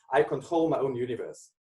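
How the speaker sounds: imitating a German accent. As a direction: quote her lightly in a German accent. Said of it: "says it with a wonderful German accent".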